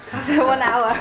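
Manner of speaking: laughing through a teasing question; a light, amused laugh through the words. Real, not acted. Teasing the class after an hour, laughing.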